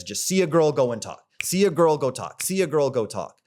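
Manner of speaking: put-on see a girl punched high and loud; rhythmic, emphatic repetition; punchy mantra. Shown as a demonstration. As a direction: hammer it home like a rule.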